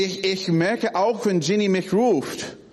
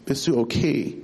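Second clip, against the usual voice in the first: lower, gentle concern; caring question; 6 semitones lower than usual. Retold or imitated. Father checking on hurt child, gently. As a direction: soften it into real care. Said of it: "Das ist ganz anders".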